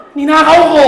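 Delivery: loud laughing confession; mock confession. Friend boasting to friend, loud and laughing. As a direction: blurt it out loud through a laugh.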